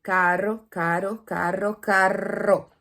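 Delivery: "caro" with one light tapped R; single tapped R. Shown as a demonstration. Teacher drilling students: "caro" with a single tapped R. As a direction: tap the R once in "caro". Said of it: "comece fazendo esse como se fosse um R só".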